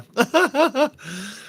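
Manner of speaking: short laugh at himself after choking. Real, not acted. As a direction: laugh it off, embarrassed. Laughing at his own choking.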